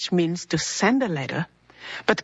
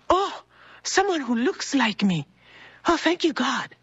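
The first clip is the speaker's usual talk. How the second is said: relieved, higher-pitched exclamation; retold relief; 5 semitones higher than usual. Lost traveler seeing someone like her, acted relief. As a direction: act out grateful relief at spotting a kindred face.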